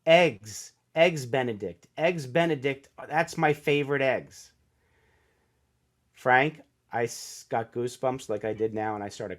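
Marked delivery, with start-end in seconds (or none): 0.0-4.5 calling out eggs Benedict, a mild mock yell; half-yell it like from a balcony; retold yell. Julia Roberts calling down from the balcony, a mild mock yell. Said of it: "she just yells the word".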